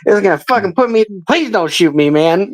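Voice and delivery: high, panicked begging not to be shot; desperate cracking pleading. Retold or imitated. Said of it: "I'm going".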